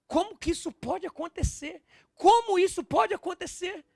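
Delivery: high-pitched acted protest; indignant Peter. Peter protesting his master's arrest, high indignant disbelief. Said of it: "E Pedro falava assim".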